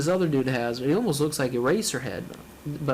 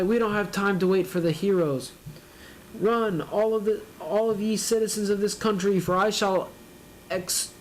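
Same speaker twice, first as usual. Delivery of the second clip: hammed-up bystander; 6 semitones higher than usual. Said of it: "Some random guy".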